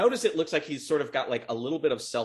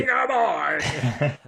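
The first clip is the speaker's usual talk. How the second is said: shout; 3 semitones higher, 5 dB louder, much slower than usual. Acted. GM voices troll's battle cry.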